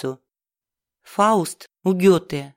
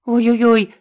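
выше и громче, тревожно; ойкать в панике; испуганное ойканье; 4 semitones higher, 4 dB louder than usual. A narrator's reading. Жуки летят на Семёна. (Семён ойкает, когда жуки сыплются)

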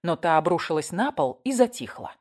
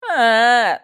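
loud, higher crying wail; child wailing; 5 semitones higher, 9 dB louder than usual. A narrator's reading. Boy howling loudly after a slap. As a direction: howl like a slapped child. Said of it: "зарыдал мальчуган".

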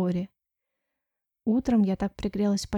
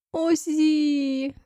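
moaning in awe; 5 semitones higher than usual. A narrator's reading. Friend marvels at the dress, mildly moaning. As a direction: sigh out her name in admiration. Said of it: "простонала подружка".

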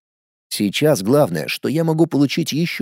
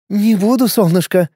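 smiling; 6 semitones higher than usual. A narrator's reading. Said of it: "Довольно искренне улыбнулась женщина".

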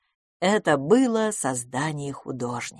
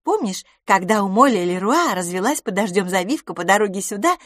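chatty friend, higher and quicker; lively young friend; 5 semitones higher than usual. Acted. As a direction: gush about curling tongs as a bubbly friend. Miss LaFosse's voice held. (болтливая подруга, голос выше)

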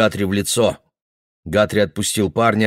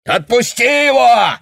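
much higher, loud, slow yell; 6 dB louder than usual. Acted. Father yelling at Guthrie, loud. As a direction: scream at him to let go. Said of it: "заорал он".

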